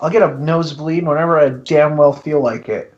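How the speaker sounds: tissue up one nostril. Real, not acted. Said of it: "'cause I have a tissue in my nose".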